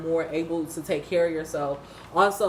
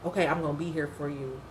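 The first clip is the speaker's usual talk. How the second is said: softer, fast, resigned acceptance; soft resigned quote; 3 semitones lower, 6 dB quieter, faster than usual. Retold or imitated. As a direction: quietly give in.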